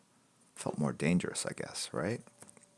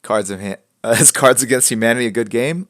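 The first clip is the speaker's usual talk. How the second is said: laughing; 4 semitones higher, 10 dB louder than usual. Real, not acted. Reading chat while laughing.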